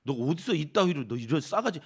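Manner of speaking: hammed-up threatening telling-off; acted-out, half-serious rebuke; mock scolding. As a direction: play at scolding an insolent child. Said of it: "뭐 이러면서 막 나무라시지를 않으세요".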